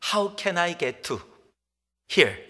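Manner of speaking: very slow English, word by word; slow English demo. Shown as a demonstration. Preacher demonstrating the English he learned to ask directions. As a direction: spell out each word carefully. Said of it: "길을 잃었을 때".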